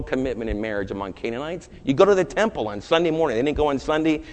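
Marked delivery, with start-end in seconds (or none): none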